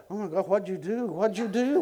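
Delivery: fretting, rapid-fire mock alarm; mock panic. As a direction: imitate a flustered translator. Translator panicking, acted out.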